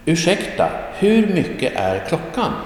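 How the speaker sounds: Ursäkta, hur mycket är klockan? lifted high and polite; polite stranger asking the time, voice lifted high. Acted. Dialogue read, asking stranger.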